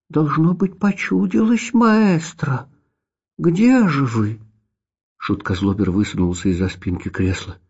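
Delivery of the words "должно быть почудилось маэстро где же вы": high, puzzled little cat. A narrator's reading. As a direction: call out gently in a cat voice. Cat character held voice.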